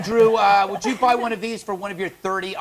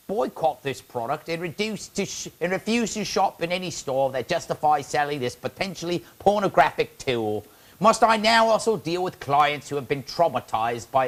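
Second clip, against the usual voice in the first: bad Australian accent. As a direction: read the quote in a dodgy Australian accent. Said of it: "That was Australian".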